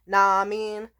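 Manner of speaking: lightly imitated African American accent; mock a white guy putting on a Black accent. White buddy greeting people, imitated Black accent. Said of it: "like, a black scent".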